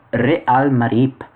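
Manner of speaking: put-on Real Marip in a light Spanish accent, Real with two syllables, ree-AL. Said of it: "that was my Spanish accent coming out there".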